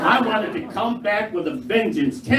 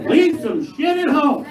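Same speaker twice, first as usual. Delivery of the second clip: exasperated; 6 semitones higher, slower than usual. Real, not acted. Exasperated punchline.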